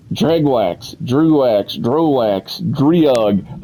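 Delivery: each name set apart, its vowel changed each time; variant pronunciations. Shown as a demonstration. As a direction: list Dregwax, Drewwax, Drowax, Driug as rival versions. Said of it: "I've heard it called everything".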